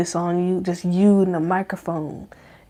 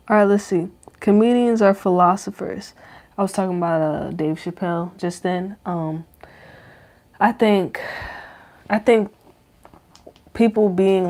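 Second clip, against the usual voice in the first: talking around a retainer; wearing a retainer. Real, not acted. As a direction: mouth full of retainer. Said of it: "I got my retainers in".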